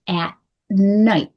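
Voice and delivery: "At night" with the t held into a long n; held together. Shown as a demonstration. Coach showing t meeting n, held together. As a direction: stop the t of "At" and release into "night". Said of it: "They stay together".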